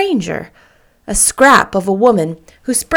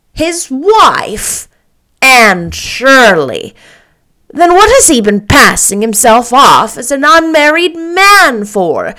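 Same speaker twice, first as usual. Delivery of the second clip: shocked Marilla; 4 semitones higher, 8 dB louder than usual. Acted.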